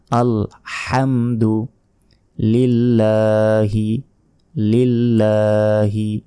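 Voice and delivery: very slow "লিল্লাহি" with লা held a second; drawn-out lam. Shown as a demonstration. Teacher showing the elongated লা, slow "লিল্লাহি". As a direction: hold the "লা" in "লিল্লাহি" for a full beat. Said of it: "লা এক second টেনে পড়তে হবে".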